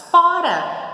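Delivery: high, loud narrated yell; furious shout. A narrator's reading. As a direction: shout it like someone raging. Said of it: "gritava espumando de raiva".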